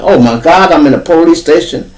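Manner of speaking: mild mock panic; panicked boy. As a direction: wake up scared and lost. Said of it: "looking like".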